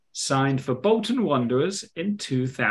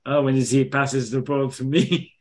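Joey Barton. Acted. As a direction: fake French accent, badly done. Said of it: "French accent".

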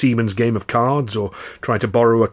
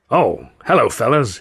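hearty greeting, a little louder at first; grinning greeting; 4 dB louder than usual. A narrator's reading. Sennett meets the comedians on the platform, grinning greeting. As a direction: greet them through a big grin. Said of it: "he said with a big grin".

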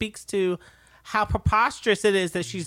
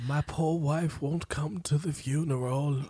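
Charles voice; 3 dB quieter, slower than usual. Pretend. Charles voice continued.

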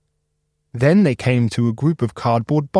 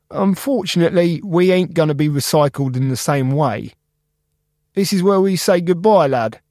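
sad Spark; 5 semitones higher than usual. Acted. Spark parting.

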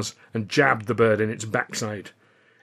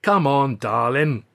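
cooing; 3 semitones higher, 5 dB louder, slower than usual. A narrator's reading. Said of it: "Richie cooed again".

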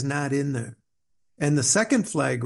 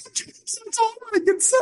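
put-on old veteran's voice breaking into tears; retold crying. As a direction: choke up as the old Marine finally lets go. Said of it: "the courage to cry and tell me".

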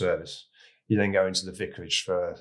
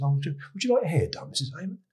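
higher, quick, sugary courtier voice; lady-in-waiting; 8 semitones higher, faster than usual. Retold or imitated. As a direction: offer it with polite condescension. Lady-in-waiting offers the wife.

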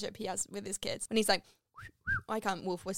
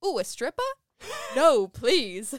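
high and loud, gasping with excitement; excited kid voice; 8 semitones higher, 9 dB louder, slower than usual. Retold or imitated. Daniel's voice of a kid hoping for strippers, excited and high. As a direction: cheer like a thrilled kid. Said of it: "doing all of these voices".

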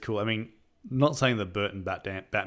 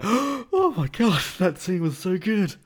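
high, slow gush of delight; 11 semitones higher, 6 dB louder, slower than usual. Retold or imitated. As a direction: swoon over the scene. Gushing over a favorite scene.

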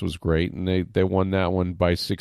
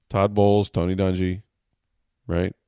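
normal talking voice

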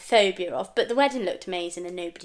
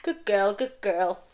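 praising yourself; slower than usual. Pretend. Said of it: "I don't talk like that".

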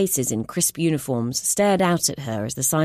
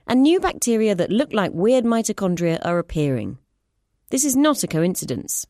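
higher, earnest explaining voice; urgent scientist; 4 semitones higher than usual. Acted. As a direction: lay out the evidence urgently. Clara explains findings.

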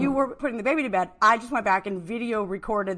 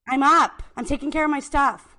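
defensive, louder acted reply; Sarma, defensive; 3 semitones higher, 6 dB louder than usual. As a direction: push back, a bit loud.

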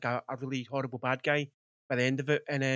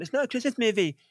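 higher, mocking the online naysayers; a bit higher, parroting a silly claim; mocking whiny tone; 8 semitones higher, 3 dB louder than usual. Mocking internet arguers, higher and whiny. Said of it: "going to Twitter and going".

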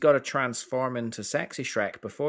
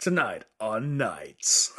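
slow, dramatic announcer voice; fighting game announcer; much slower than usual. Pretend. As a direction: announce it like a movie trailer. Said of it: "How'd you like my announcer voice?".

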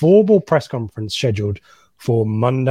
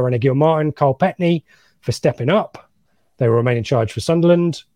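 Brummie-style reading of a statement; West Midlands accent. Retold or imitated. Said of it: "West Midlands accent".

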